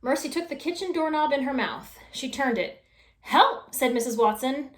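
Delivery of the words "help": short, high, loud cry; cry for help. Acted. Trapped wife calling out for help, loud and high. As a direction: shout it to be rescued.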